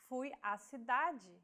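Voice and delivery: Fui a cidade with a and a merged into one open à; Portuguese sentence, crasis said as one vowel. Shown as a demonstration. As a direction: run the two a sounds together as one. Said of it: "The crasis is a contraction".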